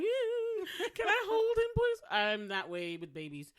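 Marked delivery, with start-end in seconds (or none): 0.0-2.0 high, squealing plea; mock baby-crazy squeal, high; gushing. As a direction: beg to hold the baby, gushing. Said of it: "I'm like".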